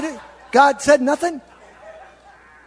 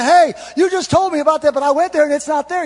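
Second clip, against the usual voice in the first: acted complaint; 6 semitones higher, 6 dB louder than usual. Lost driver comes back complaining.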